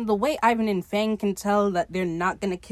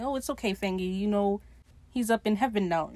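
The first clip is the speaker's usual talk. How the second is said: comforting. Retold or imitated. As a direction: soothe a crying friend, lightly acted. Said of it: "Ivan's comforting him".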